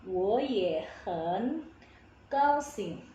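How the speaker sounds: slow "Wo ye hen", first two rising, "hen" dipping; tone change demo. Shown as a demonstration. Teacher models the changed tones, slow "Wo ye hen gao xing". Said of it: "Jadi nada kedua".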